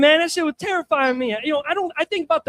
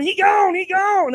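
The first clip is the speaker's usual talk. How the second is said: high, loud anguished cry of grief; yelling dad; 7 semitones higher, 5 dB louder, slower than usual. Retold or imitated. Dad yelling as Dale Earnhardt dies, anguished. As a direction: wail it out like a grieving dad. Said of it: "My dad's yelling".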